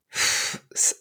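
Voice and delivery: unvoiced scoffing puff of air; scornful sigh. Real, not acted. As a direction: blow out air in mild scorn. Exasperated sigh before answering.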